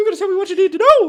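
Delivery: very high, very loud squeak. Imagining a line from an episode said as a Mickey Mouse voice. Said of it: "I'm just imagining it in the Mickey Mouse voice now".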